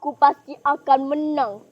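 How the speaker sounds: loud, firm vow to win; assured, forceful boast; confident declaration. Acted. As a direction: announce your victory with full certainty. Rival declares sure victory.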